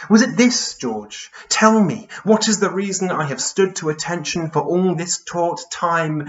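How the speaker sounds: high, urgent questions in a poetic reading; Charles Byrne, questioning. Acted. Giant asks George why he cannot rest, pleading questions. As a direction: demand an answer, each question starting high.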